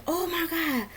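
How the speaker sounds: high, laughing half-sob of disgust; cry-laugh it out in horror; high, laughing, upset outburst. Retold or imitated. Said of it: "I was so upset".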